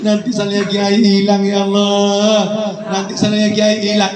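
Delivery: acted tearful moaning; mock crying. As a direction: lament like a worried pupil in tears.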